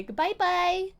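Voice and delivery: usual speaking voice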